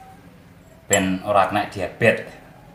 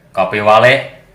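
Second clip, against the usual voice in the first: slow tagline; slower than usual. Acted. Channel tagline at sign-off.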